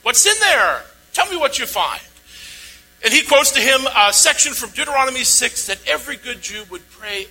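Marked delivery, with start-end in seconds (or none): 0.0-2.0 higher, louder and slow, turning the question back on the lawyer; preacher voicing Jesus pressing the lawyer; Jesus challenging. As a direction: put the expert on the spot, slowly and pointedly. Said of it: "In other words".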